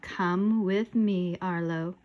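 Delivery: slow, eerie ghost voice; scary figure. Acted. Hooded figure summons a boy, slow scary voice. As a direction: beckon slowly like a spectre. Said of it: "And then the scary figure spoke".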